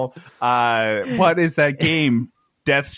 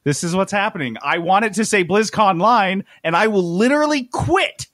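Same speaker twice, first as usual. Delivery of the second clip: mock stubborn stand; 3 semitones higher than usual. Employee refuses to give up his pun, mock stubborn. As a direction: dig in, rising toward a mock threat. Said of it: "And I'm like".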